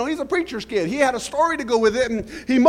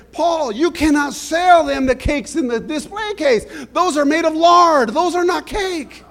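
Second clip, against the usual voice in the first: owner scolding; 4 semitones higher than usual. Retold or imitated. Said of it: "And she says".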